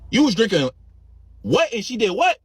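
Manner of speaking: high, loud incredulous auntie; can't believe what she just heard; shocked disbelief. Retold or imitated. Auntie asking her niece to repeat it, high and shocked.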